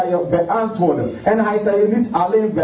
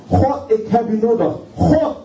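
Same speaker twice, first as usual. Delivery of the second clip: desperate cry to God; 5 semitones higher than usual. Shown as a demonstration. Preacher showing the congregation how to cry out desperately. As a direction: pitch climbing high on the final God. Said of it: "maar gewoon zo wanhopig".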